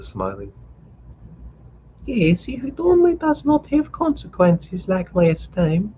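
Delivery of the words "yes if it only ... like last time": high, slowed anxious mother; worried mother. A narrator's reading. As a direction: fret about last time.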